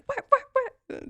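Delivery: high, slow stunned "what what what"; stunned disbelief. Retold or imitated. Retelling her reaction to the book twist, stunned. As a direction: replay your shocked inner voice, drawn out. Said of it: "I was just sitting there like".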